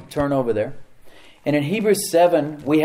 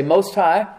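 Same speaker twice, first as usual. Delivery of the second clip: "Most High" lifted higher and loud; emphatic call-out; 4 semitones higher, 6 dB louder than usual. Shown as a demonstration. Preacher prompting the congregation to repeat, high and loud.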